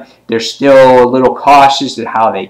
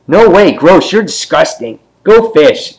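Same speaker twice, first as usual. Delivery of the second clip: put-on high, swooping boyish revulsion; high-pitched playful disgust; mock disgusted kid; 7 semitones higher than usual. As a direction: imitate a little boy grossed out by a girl. Voicing boy rejecting girl's question.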